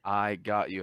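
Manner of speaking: "I got you" sounded out slowly; slow reading. Retold or imitated. Scammer reading the email as told, slow "I got you". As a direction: read "I got you" word by word. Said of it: "Read it really slow".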